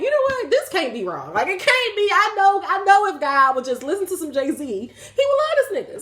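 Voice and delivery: high-pitched, animated self-argument; mock indignant realization. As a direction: plead the case high and laughing. Acts out her younger self's reasoning.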